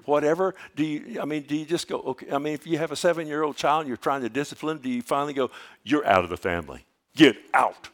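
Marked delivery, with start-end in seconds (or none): 5.8-7.9 mock parent yell. Parent mock-scolding seven-year-old.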